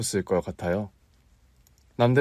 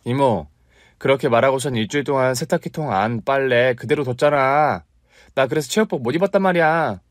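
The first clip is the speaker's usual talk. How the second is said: put-on higher, exasperated child nagging; nagging kid; 4 semitones higher, 4 dB louder than usual. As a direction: scold your aunt like a fussy boy. Boy complains to aunt.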